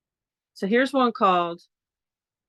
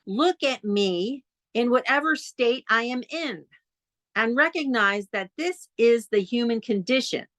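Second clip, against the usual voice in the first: poetry reading; 4 semitones higher than usual. Acted. Reads a building poem.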